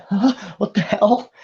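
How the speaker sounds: mildly bewildered reaction; confused. Acted. Clerk hearing a voice in her head, confused. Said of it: "she looks around really confused".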